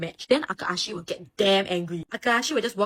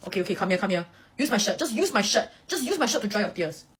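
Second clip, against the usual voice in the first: soft comfort. Retold or imitated. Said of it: "when he's talking to Oikawa".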